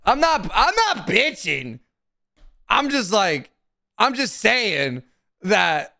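high, slow defensive whine; whining that he's not bitching; whiny denial. Real, not acted. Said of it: "Literally right now".

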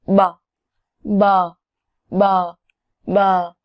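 뭐 said with closed lips, voiced, no air; Vietnamese sound demo. Shown as a demonstration. Teacher modeling 뭐 for learners to copy, lip sound. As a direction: model 뭐 clearly with the lips, repeated. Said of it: "뭐는 입순으로 발음이에요".

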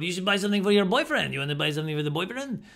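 put-on a faint, fast-talking Mexican vendor accent; bad vendor accent. Beach vendor pushing watches on wife, light accent. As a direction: hawk it lightly like a beach seller. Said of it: "that's probably a terrible accent".

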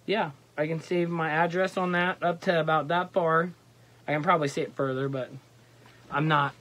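muffled through leafy mesh; speaking behind face covering; through a face mask. Real, not acted. Seen 4: Leafy camo mesh flap covers the whole face throughout the labelled words.

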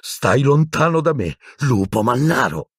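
high, strained warning; breathing hard. A narrator's reading. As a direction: warn him off, struggling for breath. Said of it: "respirando affannosamente".

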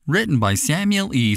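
ordinary delivery

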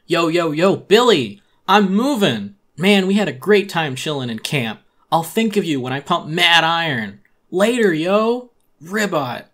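high, loud gym-bro hype; loud, high jock farewell; bro villager voice. Acted. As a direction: pump it up like a jock shouting goodbye.

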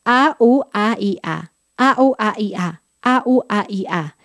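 vowel drill speeding up each time; vowel chain from careful to quick. Shown as a demonstration. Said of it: "cada vez un poco más rápido".

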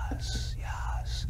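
whispered, delighted "yes, yes"; whispered approval. Retold or imitated. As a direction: breathe out the yeses like an excited professor. Nagel lights up at good answers.

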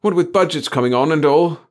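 high, loud plaintive complaint; almost wailing. A narrator's reading. Chief despairing over budgets to the boys, almost wailing. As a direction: lament it, pitch pushed up high. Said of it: "He was almost wailing now".

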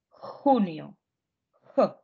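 хуніо begun with a rough х like Ukrainian х; spanish j as х. Shown as a demonstration. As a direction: show the throat sound х at the start. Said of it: "Це є х". (вимова: хуніо, як наше х)

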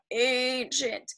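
ANCIENT in a lightly put-on old voice; playful hint of an old person on ANCIENT; weird old voice. Shown as a demonstration. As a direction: draw out ANCIENT as if a bit creaky with age. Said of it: "my voice got a little weird".

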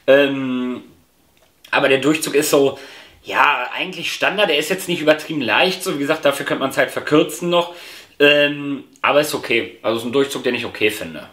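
talking around pipe mouthpiece; hookah mouthpiece in mouth. Real, not acted. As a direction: lips on smoking mouthpiece. Seen 0: Mouthpiece held at or between lips while speaking, between puffs.

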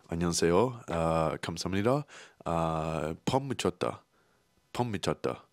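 quick learner's Korean greetings and thanks, aiming for a Korean accent; trying to sound Korean. Shown as a demonstration. Vlogger showing Korean words learned from tattoo artists, trying hard for a Korean accent. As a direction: say 안녕하세요 and 감사합니다 briskly, the way the Korean artists say them. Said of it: "I'm trying so hard to sound Korean".

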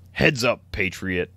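slow, even robot announcer voice; lightly voiced ride robot. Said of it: "a robot voice that says".

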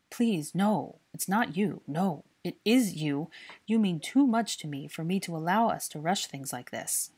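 a touch of earnest pleading, slowing down; mean every word, gently. Acted. Draco explaining to Hermione why they must wait, earnest. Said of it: "he explained earnestly".

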